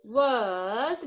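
low, slow dictation split with a pause before was; slow teacher dictation. Shown as a demonstration. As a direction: dictate it word by word. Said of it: "आपको क्या लिखना है".

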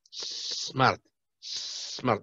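Smart whispered with a long hissed s and no e before it; hissed pronunciation. Shown as a demonstration. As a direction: lean on the hissing s of Smart. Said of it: "smart con E, smart, no".

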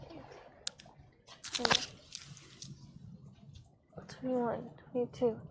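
strained, quiet counting through a stretch; straining in a bridge pose. Real, not acted. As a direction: count under the effort of holding a pose. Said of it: "Ow, my back".

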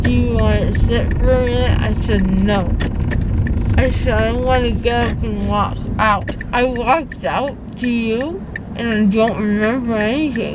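talking around gauze pads; muffled speech after dental work; mouth full of gauze. Real, not acted. Seen 1: White gauze packed in her mouth throughout, absent in references.

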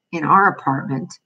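"our" picked out with emphasis, the rest even; stress on "our". A narrator's reading. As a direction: lean on the word "our". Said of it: "I emphasized the "our".

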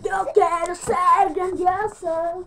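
arrastrado y solemne; alárgalo con aire de grandeza; grandioso lento. Pretend. Niño jugando con filtro. (voz solemne y lenta)

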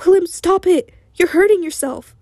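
high, desperate plea; near tears. A narrator's reading. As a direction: beg him to stop, almost crying. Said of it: "almost in tears".

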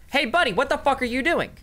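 mock call-out. Telling the character to shout at the gravedigger, mock high yell. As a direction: holler it across the graveyard. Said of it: "You can ask".

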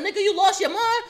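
punched in the mouth, yelling back furiously; furious shout. Retold or imitated. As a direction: yell it after taking the punch. After getting punched.

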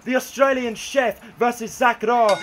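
big arena announcement; ring announcer. Acted. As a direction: announce the title match. Official match announcement.

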